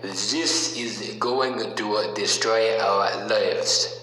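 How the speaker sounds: put-on slow, lightly done Iranian accent quoting the father; a self-admittedly poor Iranian accent, drawn out; a hint of an Iranian accent, slow and deliberate; bad Iranian accent. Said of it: "I'll do the accent".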